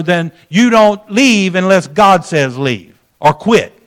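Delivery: slow, firm retold rebuke; kinda gruff. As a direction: lay down the rule like a gruff pastor. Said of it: "It was kinda gruff".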